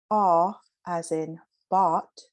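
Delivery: slow rounded "Aw" in "bought", set against "ah"; demo of aw vowel. Shown as a demonstration. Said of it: "So hear the difference in the two vowels".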